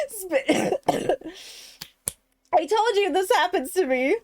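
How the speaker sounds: ordinary delivery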